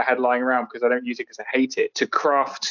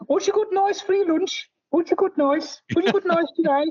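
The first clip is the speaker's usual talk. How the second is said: much higher Black Country woman's voice; Black Country lady. Retold or imitated. Recalling a hospital colleague asking about lunch, in a high Black Country voice. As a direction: mimic the nosy hospital lady. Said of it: "there's one lady who says".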